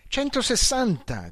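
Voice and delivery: high thrilled shout; thrilled shout, slowed; shouting the speed. A narrator's reading. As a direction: call out the number in delight. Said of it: "gridò".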